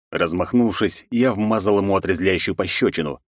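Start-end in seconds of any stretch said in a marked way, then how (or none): none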